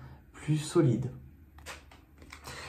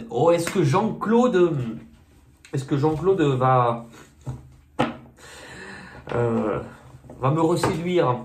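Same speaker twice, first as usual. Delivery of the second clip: badly faked regional French accent, drawn out; botched accent; slower than usual. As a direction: attempt an accent you can't really do. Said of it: "je sais pas faire les accents".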